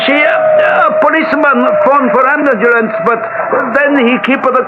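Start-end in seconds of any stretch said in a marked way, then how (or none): 0.0-2.9 agitated shout. Acted. Doorman shouting out the news.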